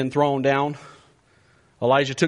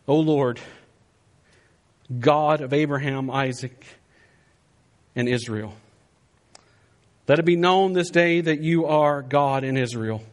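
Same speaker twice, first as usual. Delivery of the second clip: solemn prayer. Acted. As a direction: pray earnestly, with pauses between phrases. Acts out the prophet's prayer.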